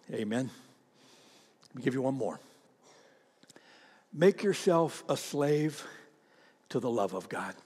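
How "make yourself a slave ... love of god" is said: soft slow emphasis. Acted. Sermon quiet emphasis.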